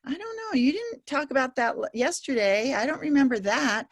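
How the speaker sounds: imitating a student protesting they don't remember; whiny student. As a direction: whine like a kid who forgot the lesson. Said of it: "We'll have students say".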